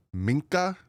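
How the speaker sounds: "Minka" with the N fully sounded, rising pitch; exaggerated N. Shown as a demonstration. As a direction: really lean on the N in "Minka". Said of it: "really pronounce the N in Minka".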